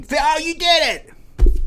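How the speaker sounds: high, slow, over-the-top cheer; fake excited praise. Tricking the kid sister into errands, fake cheer. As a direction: gush falsely like a proud big brother.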